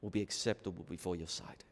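soft, hushed opening prayer; quiet prayer. Acted. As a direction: pray quietly before the sermon.

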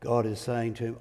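usual speaking voice

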